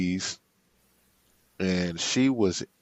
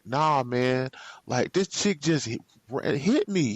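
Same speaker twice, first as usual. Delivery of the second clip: high, fast indignant rant; fuming complaint; 5 semitones higher than usual. Retold or imitated. Telling Rashard she hit him, fast high indignation. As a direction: vent to your boy fast and high. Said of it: "I'm white hot".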